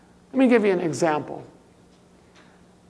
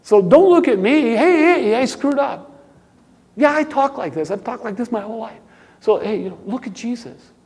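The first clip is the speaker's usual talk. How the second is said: mock careless believer; 2 semitones higher, 3 dB louder than usual. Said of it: "the whole premise there is".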